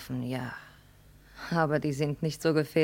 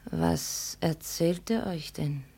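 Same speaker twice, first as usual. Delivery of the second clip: soft whispered storytelling; hushed whispers; 2 semitones higher, 4 dB quieter than usual. Acted. Girl whispers the emperor's tale to the daughter. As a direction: keep it secret and hushed. Whispered scene between two.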